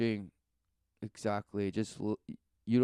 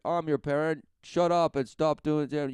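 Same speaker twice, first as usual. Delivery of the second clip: higher-pitched defiant talk-back; mock defiant retort; 5 semitones higher than usual. Child talks back to a parent, mock defiant. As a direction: tell a parent off, mock-bossy.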